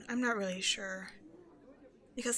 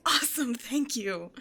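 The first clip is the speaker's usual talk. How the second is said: breathy whispered thank-you, no voice; 5 dB louder than usual. Real, not acted. Thanking the stranger for agreeing, whispered. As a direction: whisper it, pleased and a little shy.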